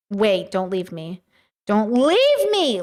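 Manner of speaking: hammed-up begging to stay; mock pleading. Streamer begging chat to stay, mock pleading.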